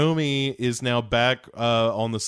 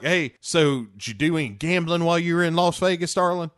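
Jeff's mock voice; 6 semitones higher, faster than usual. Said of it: "And he's like".

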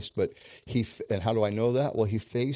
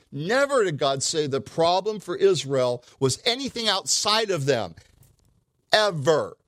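1 fervent preaching; 9 semitones higher, 8 dB louder than usual. Real, not acted. Preacher at full force.

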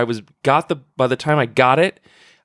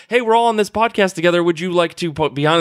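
excited pitch; 5 semitones higher than usual. Retold or imitated. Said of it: "just be like".

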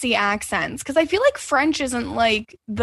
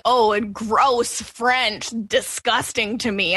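mock disgust; much slower than usual. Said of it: "just saying".

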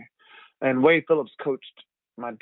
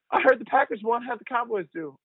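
imitating mom; 8 semitones higher than usual. Mother voiced again.

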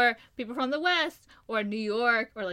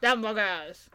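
drawn-out mock French mangling of "hamburgers"; Jacques Clouseau accent; much slower than usual. Quoting Pink Panther for co-host, mangled Clouseau accent. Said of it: "That's what I sound like in my head".

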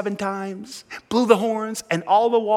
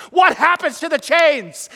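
emphatic repeat; 6 semitones higher than usual. Real, not acted. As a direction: press the crowd for the answer. Preacher repeats question to crowd.

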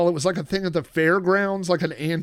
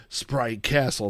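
slow, lightly robotic "Sprite Castle"; computerized voice; 3 semitones lower, slower than usual. Retold or imitated. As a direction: say it like a sampled computer voice. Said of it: "It's like a computerized voice".

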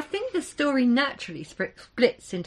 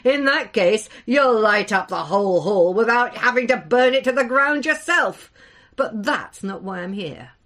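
a booming, good-humoured jest, settling at the end; joking; 6 dB louder than usual. Acted. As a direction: brush off the insult with a loud grin. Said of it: "he joked".

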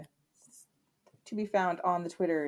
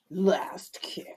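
whispered aside. Acted. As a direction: breathe the name in a whisper. Sudden whispered show name.

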